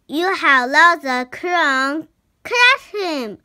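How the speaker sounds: loud, urgent call rising to a high cry; shouted order. A narrator's reading. Harry ordering the others after Locket, shouted. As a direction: shout a command to give chase. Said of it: "shouted Harry".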